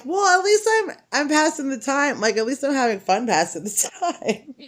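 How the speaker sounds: high, bright retort to the sigher; sassy high comeback; high mock retort. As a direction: toss back a cheeky high-pitched answer. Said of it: "and I'm like".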